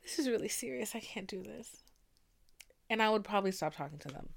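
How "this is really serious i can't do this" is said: half-whispered mock panic, softer; panicked whisper. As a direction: hush it like you're scared of the words. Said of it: "I'd be like".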